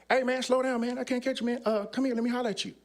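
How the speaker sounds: high-pitched mock call to a runner; calling after someone. Crips member trying to catch a runner, lightly acted call.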